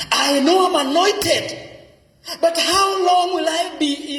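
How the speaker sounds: high, pained voice of David complaining to God; David in the caves complaining, high and pained; frustrated David. Acted. Preacher voicing David's complaint.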